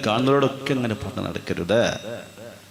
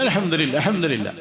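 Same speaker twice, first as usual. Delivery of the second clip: emphatic thanks; 7 semitones higher than usual. Retold or imitated. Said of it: "veto പവറോടെ പറഞ്ഞാൽ".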